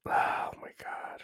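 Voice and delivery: slow, barely audible whisper; whispered to self. Real, not acted. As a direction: whisper it under the breath. Muttering while searching for a number.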